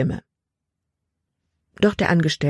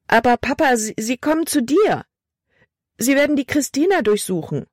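frightened pleading; 9 semitones higher than usual. A narrator's reading. Frightened girl pleads with father.

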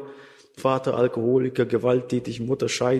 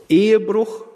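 higher and louder single word; emphatic call; 7 semitones higher, 5 dB louder than usual. Acted. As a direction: hit "Ehebruch" like a warning from the pulpit. Preacher stresses the sin.

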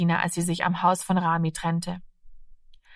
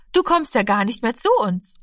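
friendly mother greeting; 4 semitones higher, 5 dB louder than usual. Acted. Mother greets her daughter's friend.

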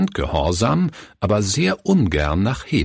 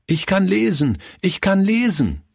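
much higher, bursting with joy; freudiger Ausruf; 12 semitones higher than usual. Acted. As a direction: call it out proudly to everyone. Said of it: "rief er jedem zu". (jubelnd und viel höher gerufen)

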